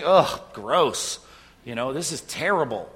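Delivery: mock snobbish revulsion, loud groaned "ugh"; condescending disgust. Preacher retelling his first reaction to bad music, condescending. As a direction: look down on it, hammed-up disgust. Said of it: "that kind of really condescending".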